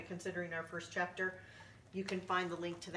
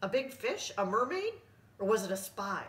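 pirate woman guessing; 3 semitones higher, 5 dB louder than usual. Acted.

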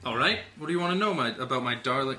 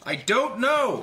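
higher, louder and slower, cracking with frustration; frustrated outburst; 8 semitones higher, 4 dB louder than usual. Acted. Sam at the dinner table, pressed about his lost memories, frustrated outburst. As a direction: snap it out, cornered and upset.

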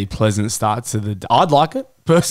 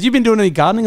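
squeaky high imitation of the missus; high mock partner; 8 semitones higher, faster than usual. Partner asking about missing gloves, high mock voice. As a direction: pitch it way up, asking innocently.

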